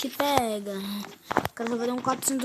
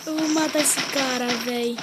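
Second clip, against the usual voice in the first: angry; 3 semitones higher, 5 dB louder than usual. Real, not acted. Gamer raging at opponent.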